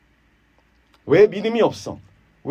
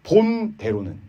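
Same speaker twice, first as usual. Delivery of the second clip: arrogant; 4 semitones higher than usual. Acted. Eliphaz lecturing Job from experience, arrogant. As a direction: lecture from on high, slowly. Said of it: "아주 거만한 말을 하죠".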